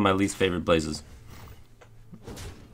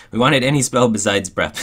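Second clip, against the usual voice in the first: exasperated; 4 semitones higher, 9 dB louder than usual. Real, not acted. Frustrated at bad draw.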